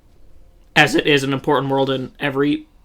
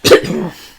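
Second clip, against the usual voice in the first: coughing fit; 6 dB louder than usual. Real, not acted. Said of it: "Sorry, I'm choking over here".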